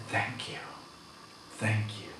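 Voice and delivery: soft, whispered thank you; man holding paper to heart, soft thanks. Retold or imitated. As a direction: breathe thanks tenderly.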